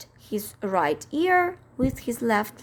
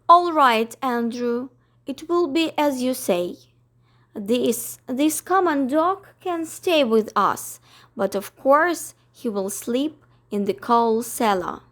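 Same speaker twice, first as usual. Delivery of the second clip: grudging Miss Lark. Acted. Miss Lark yields to her dog, grudging. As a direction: concede with a sniff.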